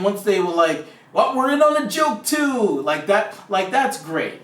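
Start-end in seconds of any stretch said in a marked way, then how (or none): 1.1-2.8 delighted audience. Retold or imitated. Voicing the audience joining the joke.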